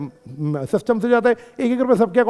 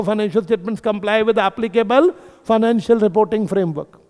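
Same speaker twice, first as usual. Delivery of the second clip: slow and stressed; 2 semitones higher, much slower than usual. Shown as a demonstration. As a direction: spell out every word slowly for the class. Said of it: "लिखो, या लिखो". (धीरे और ज़ोर देकर)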